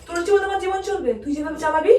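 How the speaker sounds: real quarrel, pitch pushed up. Real, not acted. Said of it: "আস্তে কথা বলো".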